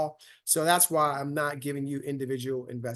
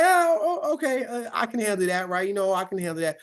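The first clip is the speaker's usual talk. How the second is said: mock-jittery investor, starting much higher and dropping back to normal; nervous investor, building then easing; 5 semitones higher than usual. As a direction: lightly play a rattled beginner talking himself into calm. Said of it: "people are like".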